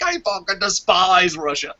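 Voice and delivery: a hint of a snarling hater, voice changed; lightly mock his hatred of Russia; mimicked angry friend. Friend in the posse rants about Russia, mild mock snarl. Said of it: "He's like".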